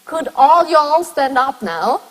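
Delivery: "Could all y'all stand up now?" said slowly and clearly; slow demo. Shown as a demonstration. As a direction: spell the sentence out slowly for the class. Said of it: "So you have".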